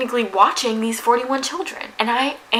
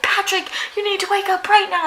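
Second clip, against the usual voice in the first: high-pitched mock yell, only a little louder; urgent but contained re-enacted shout; retold shout; 10 semitones higher, 3 dB louder than usual. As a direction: imitate shouting a sleeper awake. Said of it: "I'm, like, shouting Patrick's name".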